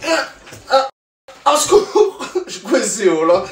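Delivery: laughing, loud mock panic; laughing cry for help. Real, not acted. Comic stuck in his own hold, laughing. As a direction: yelp for help through laughter.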